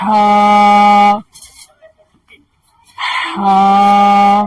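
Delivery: "ہا" pushed out from the throat on a loud rush of air; breathy throat ha. Shown as a demonstration. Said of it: "بالکل آپ حلق سے ہوا نکالیے اس طرح سے".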